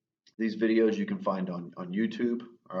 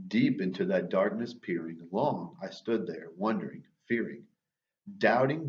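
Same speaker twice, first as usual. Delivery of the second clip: dramatic reading of a dark poem. Acted. Reads Poe stanza aloud.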